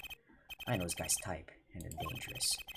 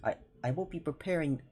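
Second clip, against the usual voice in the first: Russian accent attempt; 8 semitones higher than usual. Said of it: "how do I do a Russian accent?".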